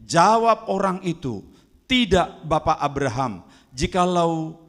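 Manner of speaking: emphatic pulpit reading; scripture reading. Acted. Preacher reading Abraham's answer to the congregation, emphatic scripture reading. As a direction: read the verses out loudly and clearly.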